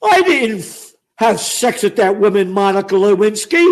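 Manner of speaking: lightly mocked politician's denial; a hint of a mock presidential denial; Slick Willie. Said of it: "how about Slick Willie?".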